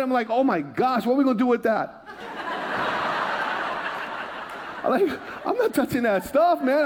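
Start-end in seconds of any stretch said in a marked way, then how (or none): 0.3-2.1 laughing. Retold or imitated. Retelling his shock, laughing. 2.1-4.8 breathy laugh. Real, not acted. Laughs at own story. 4.8-6.8 laughing. Real, not acted. Laughing while joking.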